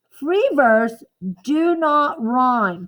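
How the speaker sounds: slow dictation. Shown as a demonstration. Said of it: "This is a bonus word".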